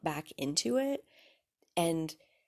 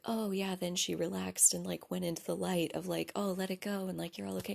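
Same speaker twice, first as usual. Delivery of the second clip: soft serene voice; 6 dB quieter than usual. Retold or imitated. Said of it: "that's where you think".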